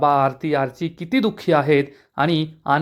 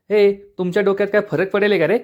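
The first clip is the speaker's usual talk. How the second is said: a touch of raised, taunting anger; angry taunt; 3 semitones higher than usual. Acted. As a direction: needle them with mild irritation. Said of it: "प्रांजल चिडून म्हणतो". (थोडासा चिडलेला, टोमणा मारणारा सूर)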